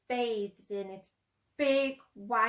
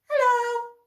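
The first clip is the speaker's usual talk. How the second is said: eager hello; 11 semitones higher, 8 dB louder than usual. Acted. Plop greets the man.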